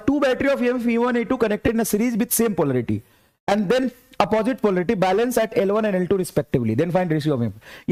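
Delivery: slow, deliberate dictation of the problem; reading the question aloud. Acted. Teacher reading a NEET question to students, slow dictation. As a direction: read it out word by word for the class.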